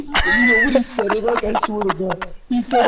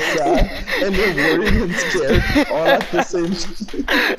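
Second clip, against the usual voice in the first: laughing. Real, not acted.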